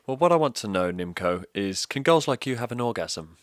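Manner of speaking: hammed-up creepy question; mock Hunt quote. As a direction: put on a creepy politician voice. Quoting Hunt's creepy question.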